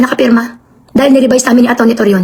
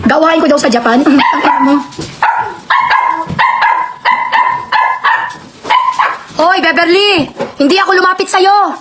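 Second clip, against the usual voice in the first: real anger. Real, not acted. Streamer telling church viewers off about Beverly, angry. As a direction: vent real fury at them. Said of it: "Talagang galit ako".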